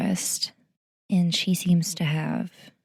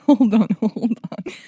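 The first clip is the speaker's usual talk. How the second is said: loud laughing hold on; stopping herself mid-freakout; excited; 3 semitones higher, 6 dB louder than usual. Real, not acted. Fan freaking out over the trailer, loud laughing. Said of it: "I'm freaking out".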